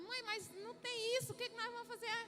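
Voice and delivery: put-on a kid asking what comes next; anxious child.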